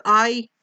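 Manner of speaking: आई stressed and held out. Shown as a demonstration. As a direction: put the weight on आई. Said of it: "में जोर दिया है". (आई पर ज़ोर देकर)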